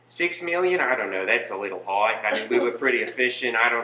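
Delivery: hedging mock Australian accent; downplay it in a put-on Australian accent; Australian Nazi. Nazi quibbling over numbers, mock Australian accent. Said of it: "Australian Nazi".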